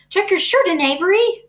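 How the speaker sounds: put-on high, loud call to a child. A narrator's reading. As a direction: cry it out across the crowd. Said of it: "cried Missus Zuckerman".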